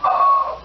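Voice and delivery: very high, loud mock wail; sudden high bawl, acted out; imitated crying wail. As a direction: burst into a piercing imitation cry. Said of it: "You start crying more".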